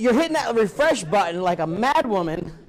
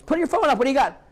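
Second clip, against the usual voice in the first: high, loud order to the room; commanding the seminar crowd to show their phones, loud; bossy call-out; 8 semitones higher, 4 dB louder than usual. Retold or imitated. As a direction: bark it at the class like a drill teacher. Teacher ordering class, high loud.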